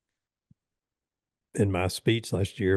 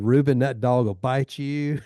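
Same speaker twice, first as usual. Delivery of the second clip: warning; 4 semitones higher, 4 dB louder than usual. Retold or imitated.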